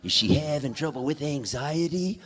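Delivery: a hint of a sly dealer's impression; Jack Nicholson. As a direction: lightly imitate a famous actor asking questions. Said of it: "he does the Jack Nicholson thing".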